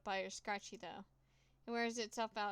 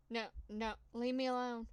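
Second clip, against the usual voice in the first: rising, louder desperate plea; frightened plea; 2 semitones higher, 4 dB louder than usual. Acted. Crawling from the mice, a loud desperate plea. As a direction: beg them to stop.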